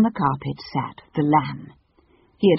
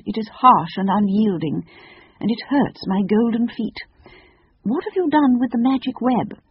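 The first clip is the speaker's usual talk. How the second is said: higher, lofty complaining voice; haughty Phoenix; 7 semitones higher than usual. Acted. Phoenix asking the children after its magic carpet, haughty. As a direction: grumble grandly, rising into the question.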